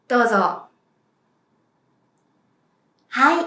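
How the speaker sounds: ordinary talk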